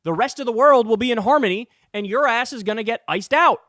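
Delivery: defiant allies. Retold or imitated. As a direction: imitate fed-up allies telling someone off. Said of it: "now they're like".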